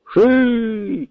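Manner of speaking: a short high call to the oxen; shout. Acted. Carters call out as they set off, high shout. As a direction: crack it out high like a drover. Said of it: "кричать чумаки".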